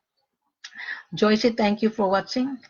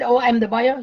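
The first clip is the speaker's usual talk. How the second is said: mock excited buyer; 2 semitones higher than usual. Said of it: "he's excited".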